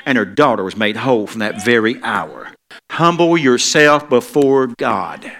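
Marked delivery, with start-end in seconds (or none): 2.9-5.3 drawn-out, loud Humble yourself before God; preacher's slow emphatic charge; slow exhortation. Real, not acted. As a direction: press each word slowly. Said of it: "slow exhortation".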